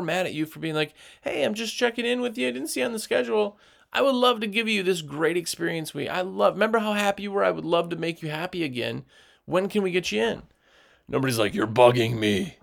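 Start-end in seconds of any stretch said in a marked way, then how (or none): 1.2-10.4 higher, quick and cheerful sales call; friendly check-in. Retold or imitated. Cleaner calling a past customer, cheerful and eager. 11.5-12.6 lower, louder put-on grumble; mock annoyed customer. Customer telling the cleaner off, mock annoyed.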